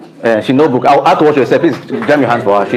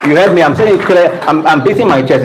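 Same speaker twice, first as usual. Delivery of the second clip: emphatic raised voice; 5 semitones higher than usual. Real, not acted. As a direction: press the point hard to the crowd. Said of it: "I'm saying it emphatically".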